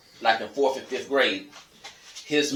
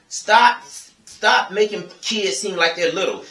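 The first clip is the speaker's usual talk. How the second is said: higher, louder, urgent demand; loud plea; 6 semitones higher, 3 dB louder, slower than usual. Real, not acted. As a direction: order the parents to stop. Pleading rant to parents.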